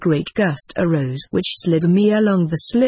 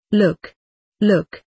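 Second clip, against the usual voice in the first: shrieking. A narrator's reading. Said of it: "shrieked Timon".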